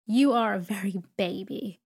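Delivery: loud blunt remark; exclaiming. A narrator's reading. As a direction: declare it like a brusque aunt. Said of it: "exclaimed Miss Betsy".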